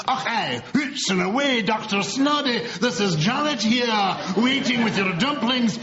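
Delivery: a deliberately poor Scottish accent; hammed-up Scottish accent done badly. Shown as a demonstration. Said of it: "is my pathetic attempt at a Scottish accent".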